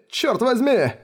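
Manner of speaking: a desperate near-sobbing outburst; anguished cry. Acted. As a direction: cry it out high, on the verge of tears. Shuss about to cry, repeats.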